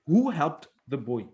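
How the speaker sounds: slow question with "Who" hit hardest; "Who" stressed, slow and falling. Shown as a demonstration. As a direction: lean on "Who", then let the rest fall. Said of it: "The emphasis is on the who".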